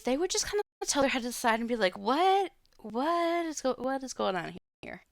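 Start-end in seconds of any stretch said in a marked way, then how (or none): 2.0-5.0 startled high confused question; sudden high-pitched bafflement, louder; confused what. Retold or imitated. Confused partner voiced in answer.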